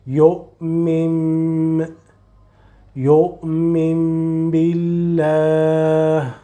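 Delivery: يؤمن بالله with noon turned to meem, slow; slow recitation demo. Shown as a demonstration. Teacher recites for student, slow careful recitation. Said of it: "say the meme".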